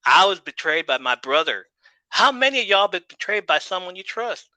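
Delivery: lightly acted rallying speech to a crowd; mildly impassioned underdog promo; wrestling promo. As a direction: punch out the rhetorical questions, lifting the pitch. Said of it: "Ace practicing his promo in the mirror".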